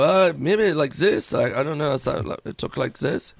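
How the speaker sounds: put-on tentative, improvised German accent. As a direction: try out a German accent on the spot, unsure. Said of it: "Can you do a German accent?".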